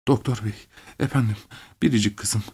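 gasping out each piece quietly; broken, halting speech. A narrator's reading. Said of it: "Kesik kesik konuşmaya başladı". (kesik kesik, alçak sesle)

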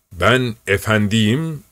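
slow, lordly and condescending; haughty. Acted. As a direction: talk down to him, slowly. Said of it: "tepeden bir bakış fırlatarak".

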